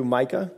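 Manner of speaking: "Micah" with a rising question tune; "Micah" softly rising, as a question. Shown as a demonstration. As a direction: lift the end of "Micah" like asking. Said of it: "as a question".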